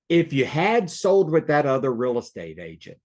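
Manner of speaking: calm, unhurried question with a small lean on SOLD. Shown as a demonstration. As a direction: ease into the question calmly. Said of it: "see how my voice calmed down?".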